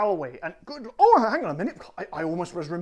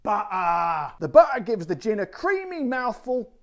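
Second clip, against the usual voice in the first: loud, put-on Cockney read; hammed-up old London Cockney; Cockney accent; 4 dB louder than usual. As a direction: read the advert like an East End Cockney. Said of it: "doing the old Cockney accent again".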